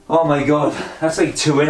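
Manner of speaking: breathless between counted reps; panting words mid-workout; out of breath. Real, not acted. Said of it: "I'm out of breath already".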